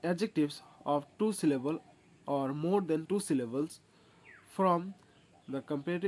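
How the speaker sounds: very slow, each word laid out for copying; slow rule dictation. Acted. Teacher dictating a rule to students, slow and deliberate. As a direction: dictate the grammar rule slowly. Reads rule aloud slowly.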